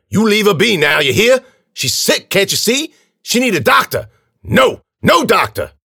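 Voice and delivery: high, loud agitated protest; angry old man scolding. A narrator's reading. Old man defends a sick girl, angrily.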